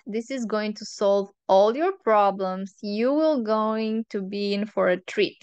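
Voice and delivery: dry sarcastic warning. Real, not acted. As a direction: say it with mock cheer, sarcastic. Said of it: "I'm being sarcastic".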